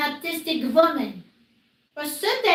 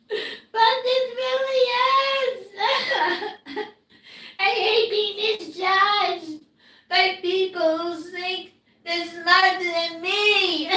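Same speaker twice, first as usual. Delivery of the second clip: crying. Real, not acted. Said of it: "I'm crying like this".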